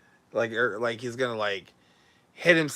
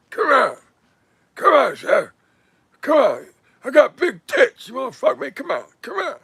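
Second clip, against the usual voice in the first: much higher, louder hammed-up come-on voice; mock seductive woman; 11 semitones higher, 5 dB louder than usual. Host parodying a woman flirting with Chef Sammy, high hammed-up tease. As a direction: squeal it like a cartoon temptress teasing the chef.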